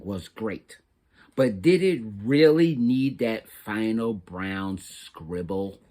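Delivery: a mortified crayon hinting at the awkward job; embarrassed brown crayon. Acted.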